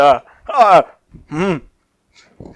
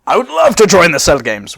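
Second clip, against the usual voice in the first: eager, slightly louder Sissel voice; a clearer second go at Sissel; Sissel's voice; 4 semitones higher, 5 dB louder than usual. Acted. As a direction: recover the character's eager voice. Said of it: "I had to get my Sissel back".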